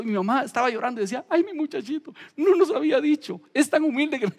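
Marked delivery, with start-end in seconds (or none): 1.3-4.3 higher, proud tearful mother; lightly voiced weeping mother; mother's voice. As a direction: imitate mom moved to tears. Crying mother voiced in story.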